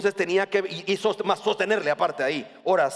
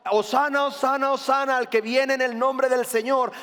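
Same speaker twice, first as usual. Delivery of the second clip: crowd cheering; 5 semitones higher than usual. Retold or imitated. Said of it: "ves al pueblo diciendo con palmas".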